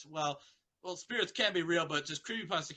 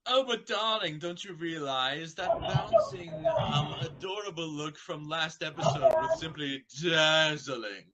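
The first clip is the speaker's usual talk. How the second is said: Rarity; 4 dB louder than usual. Acted.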